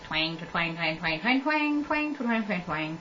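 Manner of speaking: soft repeated plucking noise; imitated heartstring twang. Heartstring when the kid cries, soft twanging imitation. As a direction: mimic a tiny string twanging, quietly. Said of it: "insignificant string that sits in your heart".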